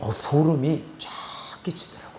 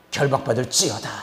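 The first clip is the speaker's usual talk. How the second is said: lower, firm falling decree; restrained exorcist's order, pitched down; contained command; 4 semitones lower, faster than usual. Retold or imitated. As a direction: pronounce the binding with measured authority.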